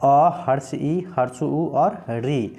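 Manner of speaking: अ, हर्ष ई, हर्ष उ, री said slowly one by one; slow, careful teacher listing of short vowels. Shown as a demonstration. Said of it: "उदाहरण में चार हो गए".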